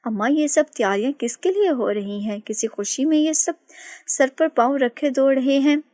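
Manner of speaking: innocently asking mother what the fuss is; lightly voiced puzzled daughter; innocent question. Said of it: "मासूमियत से सवाल किया".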